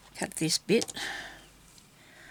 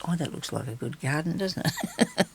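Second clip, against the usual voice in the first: laughing; 2 semitones higher, 6 dB quieter than usual. Real, not acted. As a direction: chuckle at your own joke. Laughs at her own pun.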